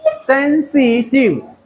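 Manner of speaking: सेंसिटिव slowly split, sen... si... tiv; slow teacher's breakdown of सेंसिटिव, sen, si, tiv; syllable by syllable. Shown as a demonstration. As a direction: stretch सेंसिटिव into three separate beats. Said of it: "three syllable".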